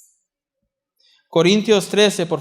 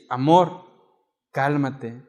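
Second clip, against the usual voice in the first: gentle calming; 4 semitones lower, slower than usual. Retold or imitated.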